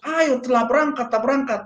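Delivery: high-pitched mimicked urging; urgent nagging. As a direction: act out a friend pestering someone to get going. Friend nags him daily to go. (menirukan ajakan yang mendesak)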